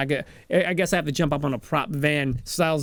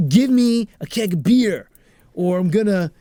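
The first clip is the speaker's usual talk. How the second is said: mock robber demand; 3 semitones higher, 6 dB louder than usual. Acted robbery demand in story.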